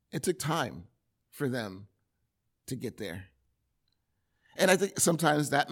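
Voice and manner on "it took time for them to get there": quieter, lower, letting "time" settle; soft repeat. Real, not acted. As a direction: repeat "It took time" gently, fading out.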